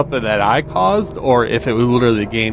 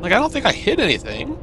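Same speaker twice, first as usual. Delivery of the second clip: incredulous; 11 semitones higher than usual. Real, not acted. Protesting innocence after crash.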